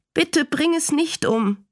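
put-on high, slow child's plea; schluchzend. A narrator's reading. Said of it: "schluchzte sie". (flehend, mit leicht gespieltem Schluchzen)

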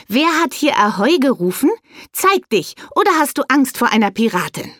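a high, bold challenge thrown at the bushes; challenging call. Acted. Bea calls from the railing to whoever hides in the bushes, boldly challenging. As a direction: dare the hidden ones to come out.

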